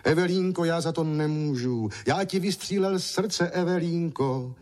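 calling after her, pleading. A narrator's reading. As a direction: beg her to come back. Francínek pleads after Evelínka.

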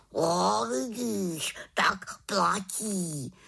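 hushed raven deal; whispered agreement. Acted. Raven seals the deal with witch, whispered.

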